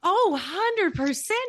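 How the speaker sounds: big, slow, emphatic yes; eager agreement. Real, not acted. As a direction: lean in hard, drawn out. Enthusiastic agreement.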